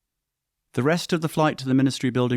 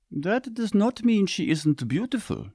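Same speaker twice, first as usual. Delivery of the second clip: higher, slow teasing mother; 12 semitones higher, slower than usual. A narrator's reading. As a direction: tease him gently, drawn out. Mother teases son.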